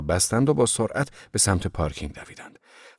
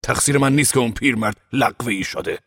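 energetic, defensive protest; more energetic; 4 semitones higher than usual. A narrator's reading. Ove defends himself to the cat over the old man, with more energy. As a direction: put more energy into the excuse. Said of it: "این بار با انرژی بیشتری گفت".

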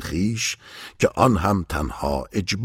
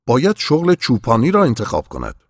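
louder, higher spoken-out thought; thinking aloud; 6 semitones higher, 7 dB louder than usual. A narrator's reading. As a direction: say the thought out loud, raised in pitch. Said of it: "با صدای بلند گفت". (با صدای بلند و زیرتر)

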